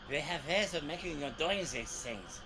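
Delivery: put-on old war-movie German accent; hammed-up German officer accent. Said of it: "West German accent as evidenced in".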